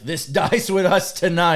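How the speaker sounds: mock-dramatic vow, breaking into a laugh. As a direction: ham up the vow and crack up. Villain vow, laughing mid-line.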